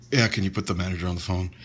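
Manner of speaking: timid. Retold or imitated. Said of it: "I was still very timid to talk to her".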